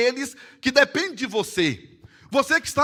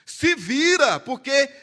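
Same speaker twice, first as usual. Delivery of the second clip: preacher's sharp challenge; forceful exhortation; 3 semitones higher, 4 dB louder, slower than usual. Acted. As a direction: throw it at the congregation.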